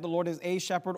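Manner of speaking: A said in full as its own word; stress on A. Shown as a demonstration. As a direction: set A apart to state a doctrine. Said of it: "He could have said".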